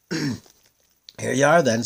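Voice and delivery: drawn-out huff of impatient eagles; eagles' voice. Acted. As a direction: eagles grumbling at the prince, slow and loud. Eagles drop off the prince.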